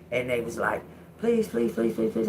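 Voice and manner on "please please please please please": higher, rapid-fire begging; mock desperate pleas tumbling out; mock pleading. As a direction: imitate people begging on repeat. Voices others begging her to stay.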